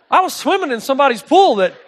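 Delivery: real laughter at the punchline; laughing. Real, not acted. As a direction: crack up while telling it. Laughing at his own story.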